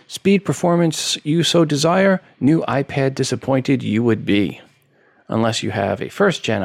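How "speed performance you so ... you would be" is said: playful wise-master inversion; Yoda voice. Pretend. Yoda-style inverted sentence.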